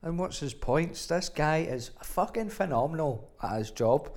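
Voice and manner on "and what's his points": eager listener voice. Retold or imitated. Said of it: "You're like".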